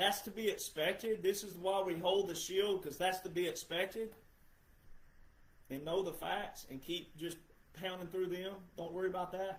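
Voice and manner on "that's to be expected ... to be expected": plain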